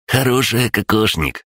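high-pitched little creature; lightly voiced high crab gnome; confirming crab-gnome. A narrator's reading. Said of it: "подтвердил крабогном".

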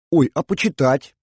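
pleading little whine; whining. Acted. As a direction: whine to be allowed a look. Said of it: "заныла Ефимова".

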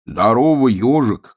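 mildly shouted hearty greeting; called out. Acted. Bear cub greets passing hedgehog, calling out. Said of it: "крикнул он".

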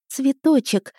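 high, glad exclamation «Цветочек!»; joyful. Acted. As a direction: call «Цветочек!» out with a happy smile. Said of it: "я радостно улыбнулась". (радостно «Цветочек!»)

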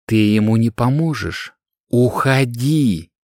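a hint of a stern old man, slow on the last word; commanding. Old man ordering the girl to leave, commanding. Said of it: "приказал старик".

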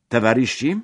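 speaker calling the hall to attention; a touch of a public shout. A narrator's reading. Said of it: "zawołał mówca".

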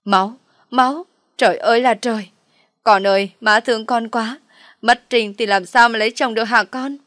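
milk the drama with a loud wail; mother shrieking at the sight of the blood; shrieking lament. Acted. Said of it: "Bà Loan lại được dịp hét lên".

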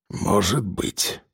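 put-on low, slow, grudging old man. A narrator's reading. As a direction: drag it out low and reluctant. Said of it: "сказал старик".

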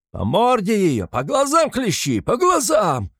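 very high, loud yell; savage shout. A narrator's reading. Mikolka orders lashing the eyes, very high loud yell. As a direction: scream the order. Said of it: "кричит Миколка".

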